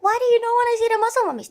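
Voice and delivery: high, fast whiny pleading; mock incredulous begging. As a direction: beg friends in a shrill rush. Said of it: "And I was like".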